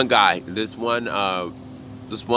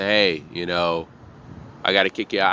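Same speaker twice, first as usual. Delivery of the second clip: nice respectful tone; 4 semitones lower than usual. Retold or imitated. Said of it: "in my nice, respectful tone and say".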